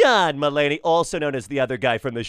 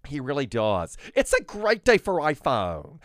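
light Tim Cook impression. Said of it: "Tim, as in Tim Cook".

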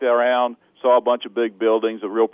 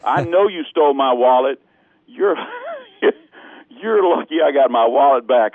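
indignant raised retort; lightly raised voice accusing the thief; retold angry yelling; 4 semitones higher than usual. Tourist refusing her excuse, retold angry retort. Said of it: "retold yelling at the thief".

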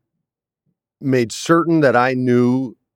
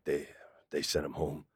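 reluctant admission; 6 semitones lower, 16 dB quieter than usual. Retold or imitated. AD reluctantly admits it.

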